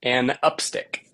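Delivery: An upstick as two joined parts; pronunciation demo. Shown as a demonstration. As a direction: model An upstick, stressing UP. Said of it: "So think of, like".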